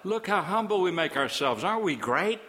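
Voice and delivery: mildly mocking the smug faithful; smug self-praise. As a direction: ham up the proud worshipper. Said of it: "you say".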